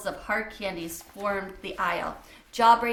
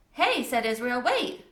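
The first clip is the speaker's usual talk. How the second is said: put-on a kid calling a classmate back; 2 semitones higher, 3 dB louder than usual. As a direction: stop him before he leaves. Israel calls Bat back.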